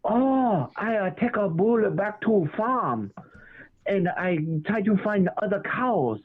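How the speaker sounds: a light imitation of a Vietnamese accent, slowed; mock Vietnamese neighbor. The speaker imitating his Vietnamese neighbor in a light mock Vietnamese accent. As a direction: mimic the neighbor's broken English, slowly. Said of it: "my neighbor was like".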